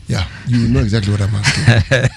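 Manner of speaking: laughing as you push the question; amused laughter. Real, not acted. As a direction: talk through a real chuckle. Both laugh over a loaded question.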